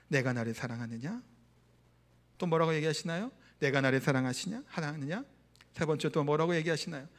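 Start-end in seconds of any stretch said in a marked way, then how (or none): 0.1-1.2 low, softened voice, lifting at the end; gentle question. Retold or imitated. Jesus asks Peter after his betrayal, gentle question. 3.6-5.2 low-pitched tender asking, rising at the end; gentle question. Retold or imitated. Jesus asks Peter a second time, gentle question.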